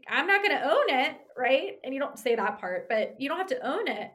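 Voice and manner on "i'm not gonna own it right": laughing aside. Real, not acted. Laughing aside while quoting.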